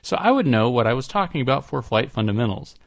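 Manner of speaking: lively read-out, lifted at the start; letter read aloud. Acted. Podcast host reading a listener's mod rules, lively read-aloud. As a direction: read it out like a list of official rules.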